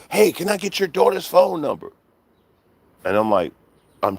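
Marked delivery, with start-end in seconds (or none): 0.1-1.9 high mock caller voice; mocking the prank caller. Streamer mimicking the troll caller's voice. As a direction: imitate a dumb prank caller, pitched up. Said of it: "they get on and they're loud".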